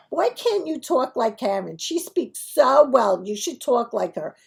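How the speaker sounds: lightly voiced Brooklyn parent, drawn-out praise; a hint of a nagging parent; imitating scolding parents. Friends' parents urging kids to talk like Karen, mock nagging.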